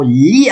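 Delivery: "Lis" with the S left silent; silent final S. Shown as a demonstration. Teacher models reading aloud, silent S in "Lis". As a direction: say "Lis" as "lee", no S sound. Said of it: "I don't say it letter S".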